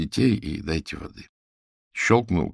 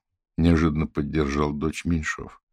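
ordinary delivery, nothing marked

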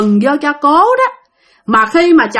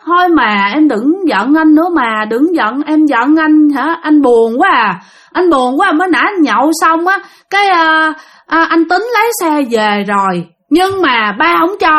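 lightly acted tipsy husband begging; drunken pleading; 4 semitones higher than usual. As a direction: coax and plead, a touch higher. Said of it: "Cái ổng năn nỉ tiếp". (giọng năn nỉ hơi xỉn, nhập vai nhẹ)

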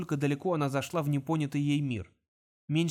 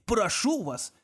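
mocking echo; 6 semitones higher, much slower than usual. A narrator's reading. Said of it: "удивлённо воскликнул Конг".

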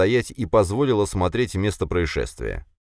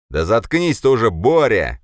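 loud, higher shout to shut him up; barked order; 5 semitones higher, 6 dB louder than usual. A narrator's reading. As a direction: bark him down across the table. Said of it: "гаркнул Драгунов".

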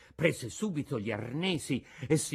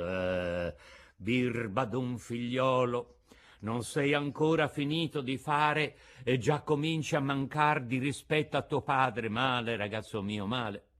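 sad reproach. Acted. Geppetto sadly reproaching his new puppet son. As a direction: chide him gently through sadness. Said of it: "si fece triste e melanconico".

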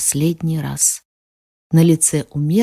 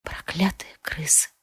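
whispered проклятые крысы, unvoiced and much softer; 3 semitones lower, 12 dB quieter than usual. A narrator's reading. Queen repeats the healer's curse in a whisper. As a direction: breathe the curse with no voice. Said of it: "шёпотом повторила я".

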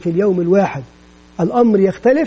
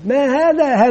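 teacher quiz question; 3 semitones higher, slower than usual. Shown as a demonstration. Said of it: "كلمة أول بدأت بالهمزة".

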